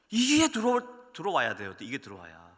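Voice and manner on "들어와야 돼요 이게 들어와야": ordinary talk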